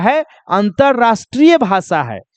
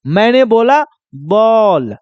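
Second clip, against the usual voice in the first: slow demo; slower than usual. Shown as a demonstration. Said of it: "मैं बोल कर दिखा रहा हूं".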